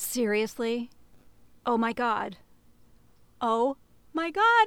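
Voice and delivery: on the verge of crying. Improv scene at a diner, offered a cigarette by a stranger, on the verge of tears. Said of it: "I'm going to start crying".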